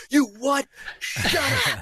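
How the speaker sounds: high-pitched mock disbelief; astonished outburst. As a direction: shriek it like a starstruck friend. Acting out friends' astonished reaction.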